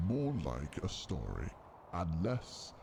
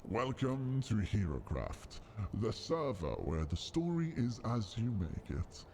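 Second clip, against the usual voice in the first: trailer narrator voice; 2 semitones higher than usual. Shown as a demonstration. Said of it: "the full trailer as".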